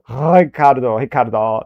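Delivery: Ricardo with a tapped, Spanish-like ending. Shown as a demonstration. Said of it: "That's more Spanish".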